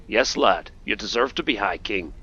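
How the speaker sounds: lightly attempted accent of the guild thief; rough Brynjolf accent imitation. Guild thief backs the player as king, half-managed accent imitation. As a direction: have an unwarmed go at his accent. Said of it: "I could do your accent a lot better".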